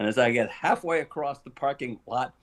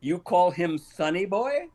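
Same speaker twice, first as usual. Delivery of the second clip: slow, higher incredulous question; imitating a puzzled interrogation; retold questioning; 6 semitones higher, slower than usual. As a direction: draw it out, rising in mock disbelief. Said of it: "he goes".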